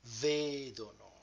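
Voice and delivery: "vedono" stressed VE-do-no; careful model of "vedono", front stress; stress on third-last syllable. Shown as a demonstration. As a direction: draw out the "ve" of "vedono". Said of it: "the last person".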